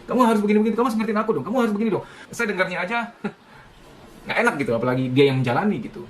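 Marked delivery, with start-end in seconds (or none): 0.0-2.0 demanding spouse. Acted. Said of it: "Diharuskan ini itu".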